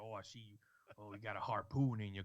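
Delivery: put-on Louisiana accent, spoken low. Retelling a game character capturing the player's shark, louisiana accent. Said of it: "like he's from Louisiana".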